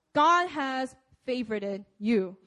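"God has favorited you" slowed, word by word; slow, deliberate emphasis. Shown as a demonstration. Preacher repeating a key line to the congregation, slow and deliberate. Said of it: "you emphasize different words in a sentence".

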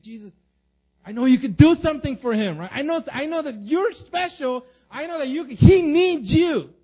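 high, loud, desperate plea; pleading friends. Acted. Friends begging Jesus to heal their paralytic friend, high and loud. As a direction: beg like a friend at the end of hope.

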